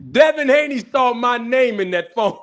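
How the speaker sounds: high and loud, near laughing; gleeful loud reveal. Real, not acted. Streamer repeating his reveal to viewers, gleeful and loud.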